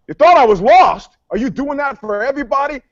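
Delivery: high, incredulous challenge; indignant retort. Retold or imitated. Driver challenging the cops who stopped him, indignant. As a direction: fire back in offended disbelief.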